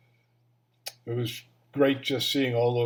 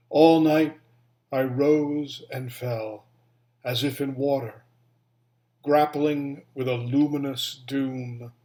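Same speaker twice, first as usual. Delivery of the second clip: measured poem recital with long pauses; poetry reading; 3 dB louder than usual. Acted. Reading a favorite Mary Oliver poem to former students, measured poetry reading. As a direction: read it line by line, letting each image settle.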